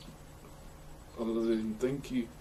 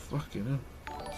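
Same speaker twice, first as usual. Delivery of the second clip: slow, softer, deflated swearing; muttered curse; 6 dB quieter, slower than usual. Real, not acted. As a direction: let it slip out slowly under the breath. Real frustration, muttered.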